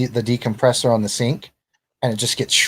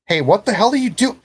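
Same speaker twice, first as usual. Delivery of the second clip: higher, louder angry yell; an agent yelling as the phone is wrestled away; 10 semitones higher, 4 dB louder than usual. Acted. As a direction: snap at someone across the room. Agent yells as phone drops.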